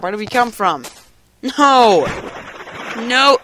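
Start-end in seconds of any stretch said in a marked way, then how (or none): 1.4-3.4 pained yelp. Real, not acted. Hurt his lip in game.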